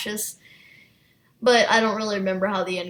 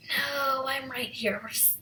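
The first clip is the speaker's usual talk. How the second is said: forced casual. Retold or imitated. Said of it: "in her voice she was so trying to make it sound like a normal situation".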